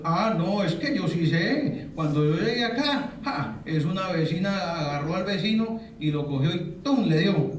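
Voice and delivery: a light imitation of a Santander woman's accent; a hint of a Santander woman's accent, retold. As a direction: lightly mimic the local Santander accent, laughing a bit. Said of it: "decía así con acento".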